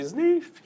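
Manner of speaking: a high little sniff; mock weepy sniff. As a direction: imitate a crying sniff.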